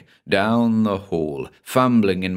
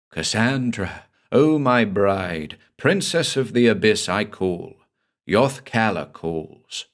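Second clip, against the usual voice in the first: monster's call. Acted. The monster calls his bride.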